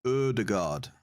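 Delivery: Ødegaard with an er-like ø; careful Norwegian try, ø as in her. Shown as a demonstration. Asking a Norwegian viewer, trying Ødegaard with a rounded ø. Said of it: "It's not O, is it?".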